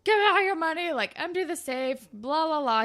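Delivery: robber voice. Retold or imitated. Robber demands cash from the store clerks, mock gruff. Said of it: "and he's like".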